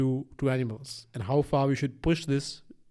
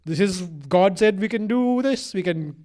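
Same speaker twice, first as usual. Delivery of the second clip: mock eager believer; 3 semitones higher than usual. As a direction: imitate someone gleefully claiming permission. Mimics people who take it as licence.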